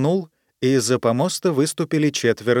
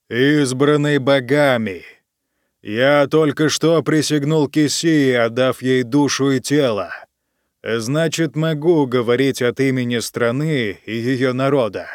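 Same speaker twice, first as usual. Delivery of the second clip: booming; 3 dB louder than usual. Acted. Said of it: "громогласно объявил он".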